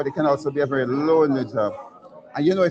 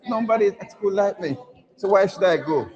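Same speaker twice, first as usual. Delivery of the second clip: higher-pitched, playfully acted self-pity; mock sulky complaint; 6 semitones higher than usual. Man arguing with his mother in bed, mock-sulky protest. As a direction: protest like a child refusing school. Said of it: "gentleman who was in his bed and said to his mo-, mother".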